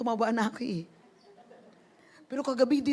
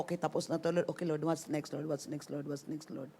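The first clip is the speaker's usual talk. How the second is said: fading prayer; 5 semitones lower, 6 dB quieter than usual. Pretend. Acted prayer, fading softer.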